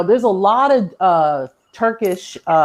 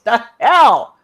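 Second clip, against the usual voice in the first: baffled; 2 semitones higher, 6 dB louder than usual. Retold or imitated. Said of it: "You be like".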